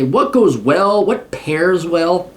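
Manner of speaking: slow, drawn-out connoisseur tone; snooty elitist. Pretend. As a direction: savor each word like a snob. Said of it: "not to sound like a snooty elitist".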